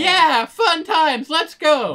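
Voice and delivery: slow, high, loud and sing-song; mock cheerful. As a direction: drag it out like a carefree hero. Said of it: "first episode of this season was like".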